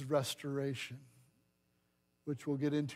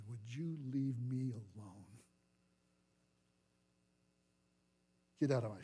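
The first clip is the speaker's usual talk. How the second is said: low irritated snap; 5 semitones lower, 9 dB quieter than usual. Acted. Peter snapping at accusers.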